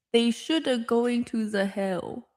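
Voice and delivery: mild imitation of mom's Chinese-accented English. Imitating her mom's Chinese-accented English, lightly mocking. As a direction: lightly mimic mom's accent, half laughing. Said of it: "I'll try to say it when she, how she says it".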